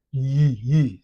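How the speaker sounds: isolated "yi", a y glide into ee; sound of letter Y. Shown as a demonstration. Teacher isolating the English Y for learners, clear "yi". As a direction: demonstrate "yi" as the consonant y. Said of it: "c'est le son de".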